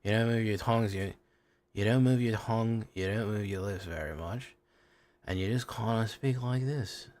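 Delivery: lazy Mid England speech, tongue and lips barely moving; lazy Mid England accent. Shown as a demonstration. Streamer explaining a regional accent, in lazy Mid England. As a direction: speak Mid England lazily, keeping tongue and lips still. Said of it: "kind of a lazy way of speaking".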